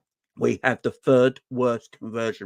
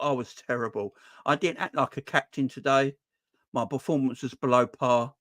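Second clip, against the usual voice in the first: Virgil's honest interview. Retold or imitated. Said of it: "That's the interview he should have gave".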